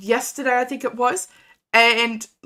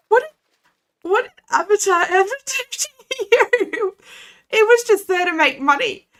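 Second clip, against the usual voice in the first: mock outrage; 9 semitones higher than usual. Mock outrage over Avatar hate.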